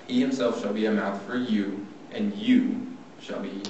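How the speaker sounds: firm and insistent, slowing at the end; forceful God. Acted. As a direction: press each point home firmly. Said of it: "I imagine God being very forceful".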